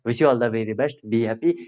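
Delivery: drawn-out goodbye wishes; teacher wishing students well at video's end, slow; slow farewell. Real, not acted. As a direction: stretch the sign-off slowly and warmly. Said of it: "slow farewell to viewers".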